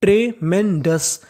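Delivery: ट्रेमेंडस drawn out slowly, syllable by syllable; slow teaching read. Shown as a demonstration. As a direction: sound out ट्रेमेंडस slowly for the class. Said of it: "पूरी meaning". (ट्रेमेंडस धीरे-धीरे)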